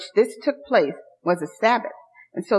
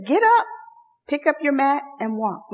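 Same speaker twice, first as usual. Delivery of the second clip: Jesus commanding; 3 semitones higher than usual. Retold or imitated. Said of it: "He just says".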